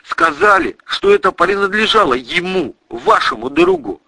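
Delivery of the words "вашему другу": ordinary delivery, nothing marked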